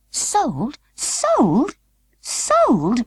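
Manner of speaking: high, alarmed echoes; echoing whispers. A narrator's reading. The dolls pass the rumour along, high and alarmed. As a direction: pass the word around, rising in alarm. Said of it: "ran the whisper among the dolls".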